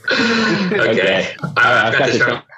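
glitchy pitch jumps; choppy robotic connection audio. Real, not acted. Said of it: "my robot voice".

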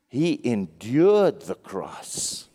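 endured drawn out slow and falling; stress on endured. Shown as a demonstration. Preacher correcting enjoyed to endured, slow stressed endured. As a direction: lean hard on endured. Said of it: "notice it doesn't say he enjoyed the cross".

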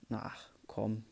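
P=A; whispered groan. Real, not acted. Small setback, muttered.

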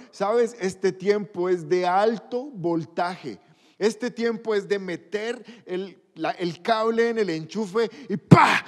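full-force pulpit exhortation; fiery preaching. Acted. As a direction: preach it with rising fire.

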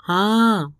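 calling out across the snow to a hidden voice; loud call. A narrator's reading. Andrei answers the unseen caller, calling out. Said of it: "ਬਹੁਤ ਉੱਚੀ ਆਵਾਜ਼ 'ਚ ਬੋਲਿਆ".

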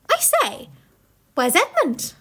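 put-on high startled girl's question; a young girl suddenly worried; Lucy alarmed.

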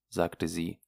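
plain reading voice

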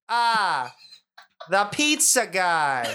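slow, knowing drawl from the dark; drawling villain. Acted. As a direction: savor the words like a smug boss. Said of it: "A voice from behind the desk says".

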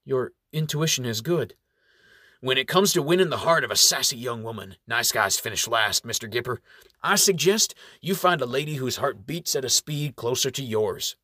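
gentle probing elder voice; kindly old reverend. Acted. Appleseed advises.

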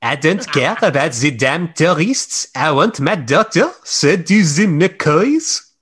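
put-on thick Scottish Highland accent. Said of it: "Your Highland accent is so thick".

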